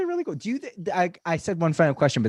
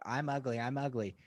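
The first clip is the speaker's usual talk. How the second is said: stage bit, muttered; 2 semitones lower, 9 dB quieter than usual. Retold or imitated. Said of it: "And I did my".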